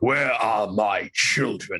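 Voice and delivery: powerful, weighty, slow, heavy dragon voice. Voicing a dragon for players in a tabletop game, powerful, heavy dragon voice. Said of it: "very powerful, heavy dragon voice".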